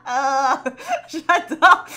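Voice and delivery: high loud laugh through the word; real delighted laughter. Real, not acted. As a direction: laugh hard while saying it. Laughing at the betrayal story.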